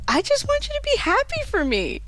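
very high, whiny pleading; imitated tearful plea. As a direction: mimic a daughter begging through tears. Retold tearful plea to mom.

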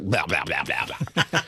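low mimicked grumbling reply; mock blah-blah response. Husband mimicking his wife's response to his advice, mock blah-blah. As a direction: imitate a dismissive stream of blahs, low.

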